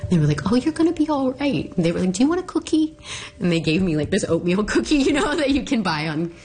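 high, squeaky, choked-up telling; real tearful voice. Real, not acted. Recounting the women comforting her with a cookie, tearful. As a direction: hold back tears as the pitch climbs. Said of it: "it makes me cry".

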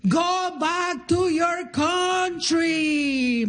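mock yell of an angry heckler, drawn out; retold yell. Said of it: "he yells at me".

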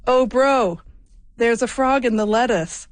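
put-on a radio host's playful Australian accent. Host quoting Reese calling out from the kitchen, light Australian accent. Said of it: "I'm gonna do this in my best Australian accent here".

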